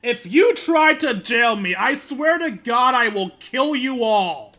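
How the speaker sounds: loud, high, slowed-down yell; threatening shout. Pretend. Player threatening the officer over being jailed, slow hammed-up shout. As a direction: bellow the threat, drawing out each word.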